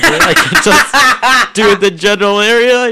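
giggling through the words; laughing. Real, not acted. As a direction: laugh while you say it. Laughing while retelling.

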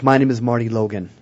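"Marty Logan" falling firmly at the end; downward inflection. Shown as a demonstration. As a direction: let "Logan" drop, low and settled. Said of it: "It's downward inflection".

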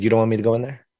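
retold mom's calm, even question; calmest voice. Mom questioning her upset child, in a calm voice. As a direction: ask it evenly, without any push. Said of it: "in the calmest voice".

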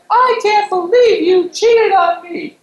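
very high, drawn-out mock wail; outraged cheated partner. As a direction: melodramatic reality-show squeal, slow and piercing. Mocks a cheated-on TV show guest.

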